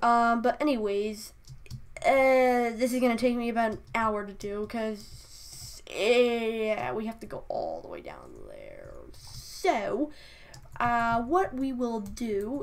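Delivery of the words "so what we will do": put-on British accent, very drawn-out and slow. Planning the next task, suddenly slipping into a British accent. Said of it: "I'm using a British accent all of a sudden".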